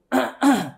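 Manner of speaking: a sharp warning clear of the throat; father's throat clearing. Retold or imitated. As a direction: clear your throat to silence the kids. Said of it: "ele só fazia assim". (pigarro de aviso do pai)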